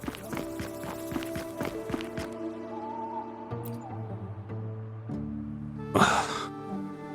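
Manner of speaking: weary sigh. Acted. Worn-out worker pausing for breath.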